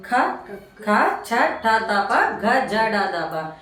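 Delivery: ఖ, చ, ఠ, ఘ, జ punched out with a puff of breath; pressed aspirated consonants. Shown as a demonstration. Teacher revising stressed letters, forcefully aspirated ఖ, చ, ఠ, ఘ. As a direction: stress each of ఖ, చ, ఠ, ఘ as a separate aspirate. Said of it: "ఒత్తు అక్షరాలు".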